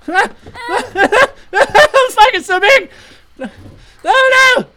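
high shrieking laughter; laughing scream. Acted.

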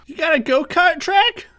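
high-pitched eager customer voice; high squeaky customer. Acted. Fake customer voice in ad.

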